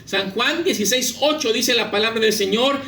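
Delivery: normal talking voice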